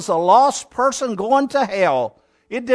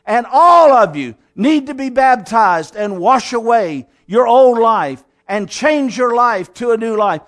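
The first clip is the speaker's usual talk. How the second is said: thundering rebuke; 3 semitones higher, 5 dB louder than usual. Acted. John rebuking priests and soldiers by the river, thundering. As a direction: thunder it out at the whole crowd. Preacher shouts John's rebuke at crowd.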